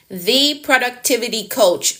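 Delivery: "The" set out first as an emphatic "thee"; stress on THE. Shown as a demonstration. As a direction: open hard on "The", said "thee". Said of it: "make an emphasis on the".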